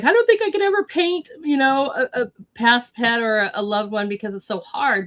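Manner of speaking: a hint of the Texan artist, high and then settling back down. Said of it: "he's like".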